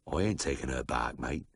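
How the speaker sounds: low, soft, unhurried drawl; lightly voiced Aussie farmer, calm and immovable; slow drawl. A narrator's reading. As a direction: lay it down low and final. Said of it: "he said in his slow drawl".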